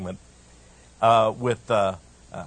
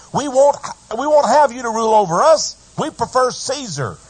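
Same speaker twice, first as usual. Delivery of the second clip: high, loud mocking voice of the crowd; crowd rejecting Jesus; 9 semitones higher, 6 dB louder than usual. The crowd refusing Jesus as king, high and defiant.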